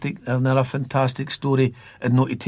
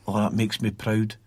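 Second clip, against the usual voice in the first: put-on Broxburn accent; 3 semitones lower, 5 dB quieter than usual. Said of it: "that Broxburn accent".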